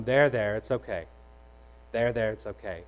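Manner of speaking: soft, low comforting murmur; calm the crying baby gently; soothing. Retold or imitated. Dad patting his crying son's back, soft soothing murmur.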